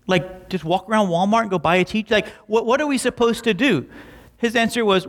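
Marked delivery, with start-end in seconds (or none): 0.1-3.9 high, rushed, stammering worry; frantic panic. Retold or imitated. Young staffer to his dad about missing teachers, frantic high-pitched rush. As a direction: fire off the questions in a flustered rush. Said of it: "he's like".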